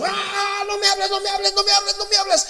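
high, strained yelling of no me hables; mock the friend's frantic yelling; grito imitado. Amigo gritando al oír de Dios. (grito agudo imitando al amigo)

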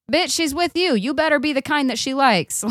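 high-pitched exasperated retort; exasperated outburst. Retold or imitated. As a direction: fire it back, incredulous. Mock outburst at the husband.

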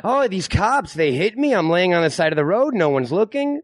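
lightly voiced grumbling old man; a hint of a kvetching grandpa; complaining grandpa. Host mocking the biker line as a complaining grandpa. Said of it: "Sounds like my grandpa".

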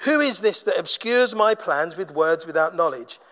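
full-voiced challenge, lightly voiced as God; God's challenge. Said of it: "He says".

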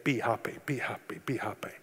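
soft repeated refrain, fading to a whisper; dwindling, murmured loop; song stuck in head. Retold or imitated. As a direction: let it echo away like a tune in your head. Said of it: "a little song that keeps going through your head".

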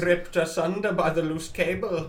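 lightly voiced eerie ghost; a hint of a haunting spirit; spooky ghost voice. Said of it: "Why are you doing this voice".

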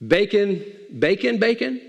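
puzzled repeats, climbing in pitch; dawning alarm. Acted. Pig realising what breakfast will cost him, mock alarm. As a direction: let the word sink in, questioning.

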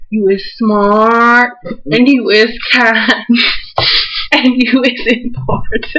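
slow, gentle words to the dog; tender pet talk. Retold or imitated. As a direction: lovingly reassure your dog, slowly. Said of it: "and I say".

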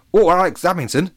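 put-on high, loud child voice; little kid. A narrator's reading. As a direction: call out like a small child. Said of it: "year two kid".

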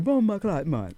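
a mild mock yell in a Jamaican accent. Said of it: "he just started yelling".

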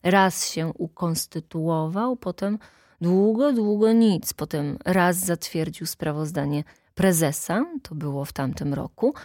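lightly voiced plain-spoken official; plain-spoken secretary. Secretary criticising the board at the meeting, mildly blunt. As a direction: complain bluntly, dragging out the words.

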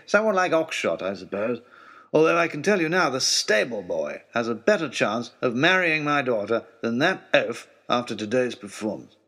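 a lightly voiced peevish aristocrat; grudging, put-upon lordship; a hint of a testy baronet father; grumbling old lord. Lord Daunt reassures the tutor.

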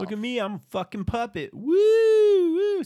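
high, loud mocking squeal; mocking puppet. Mocking London as he dances around, in a high loud squeal. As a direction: ham it up as a self-pitying puppet.

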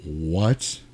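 breathless whispered "What?"; mock stunned whisper. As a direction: whisper it in disbelief. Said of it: "this look on your face like".

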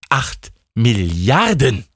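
ACHT, pause, MILLIARDEN stretched out slowly; emphatic repetition. Acted. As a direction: spell out "Acht Milliarden" at half speed. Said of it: "ich wiederhole mich da". („Acht Milliarden“ langsam und gedehnt betont)

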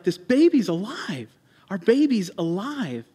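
mildly excited retelling of an amazed father; freaking out, retold. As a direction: imitate joyful amazement, with some restraint. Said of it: "He's, like, freaking out".

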